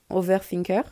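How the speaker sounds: overthinker said with a light English accent, not bilingual; English-accented word. Real, not acted. Apologising to viewers, a light English accent on overthinker. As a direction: say overthinker the English way, a bit clumsily. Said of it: "Désolée pour mon accent anglais".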